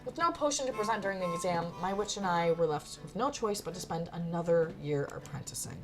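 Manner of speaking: measured closing narration; story narration. Acted. Narrator tells of another year apprenticing, storytelling. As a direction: wrap up the tale evenly.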